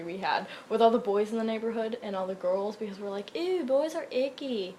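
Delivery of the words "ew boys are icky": put-on slow, high little-girl "ew"; girly disgust. Girls jeering at neighborhood boys, prissy kid voice.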